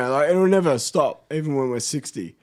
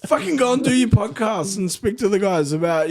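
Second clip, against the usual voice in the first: pitched-up mock French accent; Nico; 7 semitones higher than usual. Guest voicing workmate ordering him onto podcast, French accent. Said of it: "what's the French accent?".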